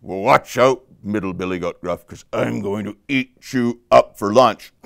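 lightly voiced troll threat; a hint of a hungry troll's menace; threatening troll. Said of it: "And the troll said".

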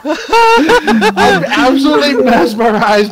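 stoner. Acted. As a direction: read it like you're baked. Keeps reading as a stoner.

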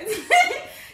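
a loud, high burst of laughter; laughing at her own joke; sudden laugh. Real, not acted. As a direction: let out a real laugh. Laughing at burning remedy.

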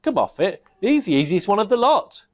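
high, loud scoffing goblin; goblin king. Acted. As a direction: wave it off with contempt.

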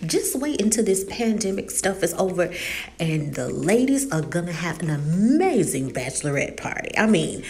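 playful, swooping party hype; joking hype. Retold or imitated. Charlie joking with her brother about a bachelorette party, joking hype. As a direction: tease with mock-excited emphasis. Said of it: "joking around with her brother and saying".

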